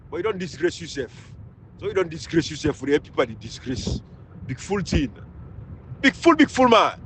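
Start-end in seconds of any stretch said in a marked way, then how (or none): 4.5-7.0 contemptuous insult. Real, not acted. Repeated insult.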